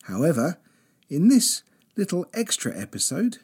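radio presenter. Acted. Presenter intro and sponsor read.

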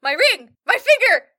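loud, high, hammed-up wailing; vampire wailing over his burning finger; melodramatic wail.

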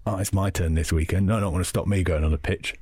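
lightly put-on Cockney; Cockney accent. Imagined idiot fan planning a pitch invasion, light Cockney accent. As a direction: voice a fan in casual mock Cockney. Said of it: "I do a Cockney accent".

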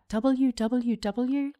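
slow, drawn-out "W W W?", each letter spelled; mock American way. Kiwi mocking the long American "W W W?". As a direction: drag out "W W W?" to show how long it is. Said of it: "Americans make longer".

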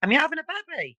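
high, sing-song Black Country question; Black Country accent. Shown as a demonstration. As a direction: ask it in excited broad Black Country. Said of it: "we'd say".

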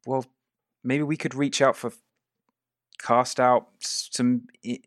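put-on slightly high, hesitant boy's voice; tentative young boy. Boy suggests sending scouts to the dwarf, lightly voiced, tentative. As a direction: lightly voice a lad floating an idea, haltingly.

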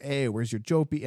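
lightly imitated Boston customer asking for "Jopi"; a hint of Boston accent, "Jopi" said like "Joe Pie" run together. Retelling a pushy Boston customer's demand, a hint of Boston accent. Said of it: "he's like".

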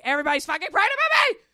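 high, fast exasperated shout; half-laughing frantic yell. Retold or imitated. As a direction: blurt it out in mock despair. Frustrated outburst retold.

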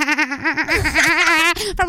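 high cackling laugh; kookaburra laugh. Real, not acted. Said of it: "sound like a kookaburra".

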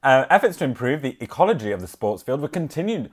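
measured village bulletin reading; local news read. Acted. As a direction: read out a parish news item. Reads local news item aloud.

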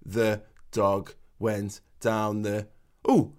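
monotone reading. Retold or imitated. Father imitating his son's monotone reading, slow and low. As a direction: plod through it like a bored young reader. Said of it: "in this monotone voice of like".

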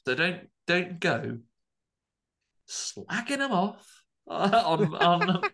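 slow, laughing mock warning; laughing scold. Real, not acted. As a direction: tease them while laughing, dragging it out.

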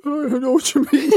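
high, loud, cracking up mid-line; words through fits of laughter; laughing helplessly. Retold or imitated. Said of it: "I was going".

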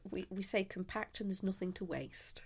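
soft whispered aside. Real, not acted. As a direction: say it under your breath.

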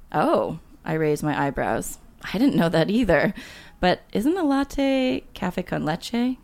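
measured read-aloud of a memoir; story narration. A narrator's reading. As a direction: read it like an author at a reading. Reads deleted chapter aloud.

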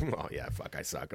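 very soft, low sheepish admission; acted quiet self-reproach; embarrassed. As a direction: mumble it like someone owning up to a blunder. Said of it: "embarrassed and just be like".

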